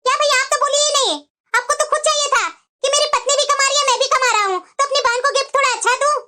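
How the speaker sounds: aggrieved sister rebuking her brother; angry reproach. Acted. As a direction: complain hotly, building to a refusal. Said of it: "तो फिर क्यों इतना गुस्सा हो रही है?". (भाई पर नाराज़गी जताते हुए)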